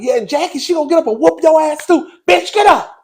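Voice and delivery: high, loud retold taunt through laughter; laughing mock shout. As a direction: yell the taunt while cracking up. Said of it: "and she was like".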